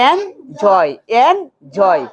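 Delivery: "এন জয়" in two detached syllables. Shown as a demonstration. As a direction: pause after each "এন", then "জয়". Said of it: "syllable করে করে পড়ো".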